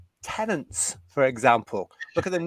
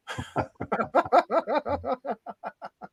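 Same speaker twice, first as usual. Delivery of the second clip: high laugh; 9 semitones higher, 3 dB quieter than usual. Real, not acted. Laughs after reading comment.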